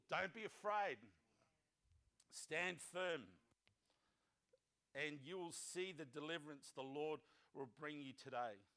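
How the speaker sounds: steady the people, unhurried and low, with pauses; calm reassurance. Acted. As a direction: read it as a calm, low-pitched promise. Moses reassures the frightened Israelites.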